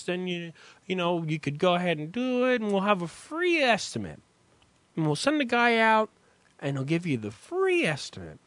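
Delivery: lightly voiced chipper salesman pitch; a hint of a smooth sales pitch. Storyteller imitating the cabinet salesman, smooth pitch.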